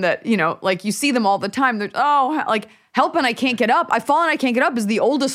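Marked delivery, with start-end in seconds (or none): 1.9-4.8 mock helpless cry. Parodies a fallen person's helpless cry.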